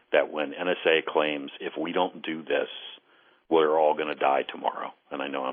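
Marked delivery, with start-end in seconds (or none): 1.6-4.9 sarcastic. Retold or imitated. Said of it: "I'm being a little sarcastic".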